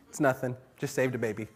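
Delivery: soft, offhand hero brag; humblebrag, tossed away softly; mock modesty. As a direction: shrug it off quietly. Acting modest hero in daydream.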